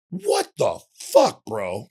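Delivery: imitating an exasperated cop. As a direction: stretch it out, a cop who can't believe it. Bike cop confronts speeder.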